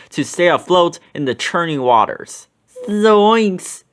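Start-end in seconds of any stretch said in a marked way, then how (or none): 2.9-3.8 high startled Shaggy yelp; Shaggy's cry. A narrator's reading. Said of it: "Shaggy cried".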